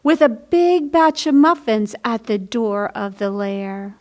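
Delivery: put-on lively picture-book read-aloud for children; bright storybook narration; story reading. A narrator's reading. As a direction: read it like storytime for little ones.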